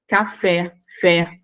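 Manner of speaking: "Café" stressed on fé, then "fé" alone; "Café, fé", final syllable isolated; stress on last syllable. Shown as a demonstration. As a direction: lean on the fé of "Café", then echo it. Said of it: "última sílaba acentuada".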